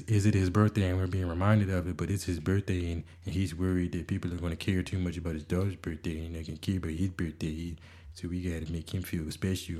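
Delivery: lightly voiced mocking of his wife. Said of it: "I'm doing that voice 'cause that's how I feel".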